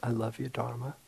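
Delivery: soft, quiet and sincere, meaning every word; heartfelt. Retold or imitated. Finally feeling it with his teacher, soft sincere declaration. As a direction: say it gently, as if it finally lands. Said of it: "I felt it".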